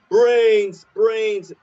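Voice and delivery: high, drawn-out moaning brains; hungry cartoon zombie; groaning zombie dad. Homer turned zombie moans.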